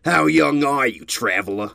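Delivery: lightly voiced probing old stallion; curious elder. A narrator's reading. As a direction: size her up, curious. Elder questions the stranger.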